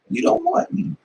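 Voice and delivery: very high, thin "You don't want me"; sky-high scornful jab; high mocking retort. Retorting to the men.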